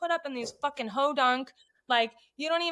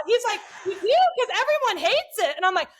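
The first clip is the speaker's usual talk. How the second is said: fake enthusiasm; 9 semitones higher, 5 dB louder than usual. Faking enthusiasm about cooter ball.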